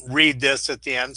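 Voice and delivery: breathing heavily after jumping. Real, not acted. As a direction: talk while winded, out of breath. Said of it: "Sorry for the heavy breathing".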